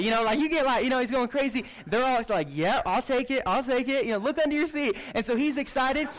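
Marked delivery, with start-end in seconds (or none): 0.4-0.8 loud, high hyped giveaway call; Oprah giveaway. Retold or imitated. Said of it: "he's pulling an Oprah". 2.5-5.0 higher, louder eager crowd; hyped crowd. Retold or imitated.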